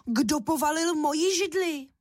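mama bear scolding whoever knocked it over; mother bear calling out, annoyed; mama bear shouting. A narrator's reading. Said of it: "rozkřičela hlasem medvědí maminky".

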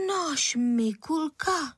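a mother shocked at the accusation; stunned disbelief. A narrator's reading. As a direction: stop short in disbelief. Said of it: "zarazila se paní Středníková".

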